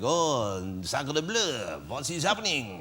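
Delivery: hammed-up movie Frenchman accent; comedy French accent. Host mimics the film's French villain, comedy French accent. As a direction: play a cartoonish French film villain, French accent. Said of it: "the full-on kind of comedy cinematic".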